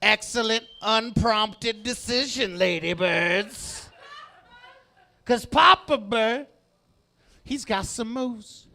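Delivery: slow, mild crooning swagger; lightly voiced Papa Bird. Comic as Papa Bird thanking ladybirds, slow and smooth. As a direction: ease back into the bird's smooth pitch.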